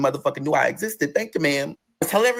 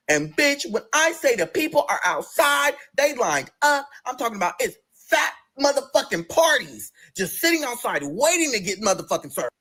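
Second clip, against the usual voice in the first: high, slow, dramatic telling; excited build; 8 semitones higher, slower than usual. Real, not acted. Storyteller describing the crowd lined up, excited.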